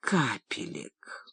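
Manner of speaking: weak, slow, faint gasp for drops; having a heart attack. Acted. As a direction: barely breathe it out, clutching heart. Father clutches heart, asks drops.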